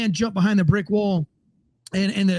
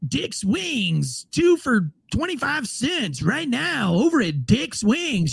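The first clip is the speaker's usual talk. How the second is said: mock ad voice; 4 semitones higher, much slower than usual. Reading a beach banner ad.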